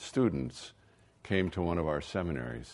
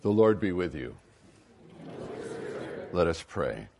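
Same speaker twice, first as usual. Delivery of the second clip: cathedral echo; 2 semitones lower than usual. Acted. Leads an opening prayer.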